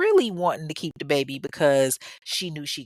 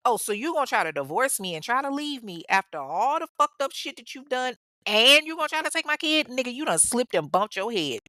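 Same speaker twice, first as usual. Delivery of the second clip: mock indignation; 4 semitones higher than usual. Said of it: "not trying to hear none of that".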